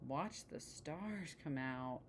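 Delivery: slow, sulky grumble; complaining. Acted. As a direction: drag it out, unimpressed. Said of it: "complained Sister".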